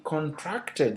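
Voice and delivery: conTRACTed, stressed on the middle syllable; verb stress. Shown as a demonstration. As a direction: lean on TRACT in contracted. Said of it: "So I'm using stress".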